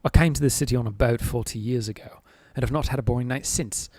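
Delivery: put-on earnest, careful British accent, lightly done; serious British accent. Streamer seriously tries a British accent for chat. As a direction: read the line as a real Brit would, in a British accent. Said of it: "this is my legitimate attempt at a British accent".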